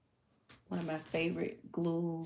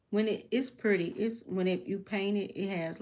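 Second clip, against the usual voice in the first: louder, rising delight; excited; 2 semitones higher, 6 dB louder than usual. Real, not acted. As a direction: gush about the paint. Excited about the paint.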